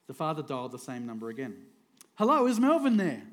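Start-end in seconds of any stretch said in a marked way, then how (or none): 2.2-3.2 bright, raised polite ask; a cheery caller asking for Melvin. Acted. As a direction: ask sweetly for Melvin again. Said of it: "asked the father".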